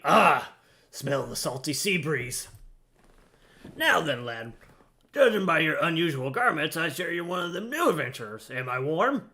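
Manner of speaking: a lightly voiced gruff old deckhand, chatty; grizzled sailor voice. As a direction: read it as a weathered old seaman, barely shifted. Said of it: "Stay with the grizzled voice".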